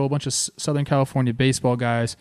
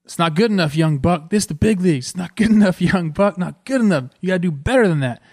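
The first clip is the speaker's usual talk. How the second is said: a raised, higher voice, playing the demanding veteran coach; tough coach; 5 semitones higher, 4 dB louder than usual. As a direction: push the young player hard and stay unimpressed. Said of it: "You know what he says to me?".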